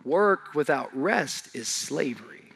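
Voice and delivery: low, soft and slow over the music; quiet, low, unhurried sermon voice; soft reflective preaching. Acted. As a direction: bring it down and let each word land.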